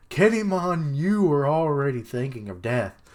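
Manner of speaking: high, loud disbelief; exclaiming loudly. Real, not acted. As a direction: call him out, shocked. Shocked at Kinemon.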